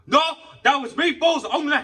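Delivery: high, loud imitation breaking into a laugh; laughing mock of worker. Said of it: "he was the one going".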